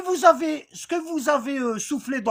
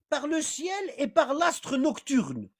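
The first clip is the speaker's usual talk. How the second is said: slow recitation; 2 semitones higher, 4 dB quieter, much slower than usual. Shown as a demonstration. Teacher reciting verse meaning.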